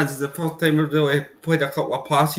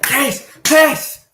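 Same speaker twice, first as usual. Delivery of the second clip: shouting at screen; 9 semitones higher than usual. Real, not acted. Urging the team to press.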